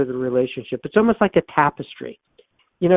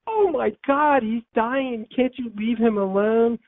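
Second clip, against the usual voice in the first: exasperated aside; 9 semitones higher than usual. Retold or imitated. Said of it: "And I say to myself".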